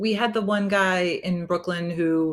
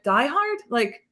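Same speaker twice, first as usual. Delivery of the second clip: much higher, giddy and disbelieving; starstruck squeal; 13 semitones higher than usual. Retold or imitated. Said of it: "stuttering like an idiot".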